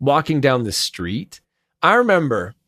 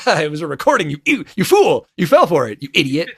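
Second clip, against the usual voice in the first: gloating mock; 3 semitones higher, 4 dB louder, faster than usual. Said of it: "I'd be like".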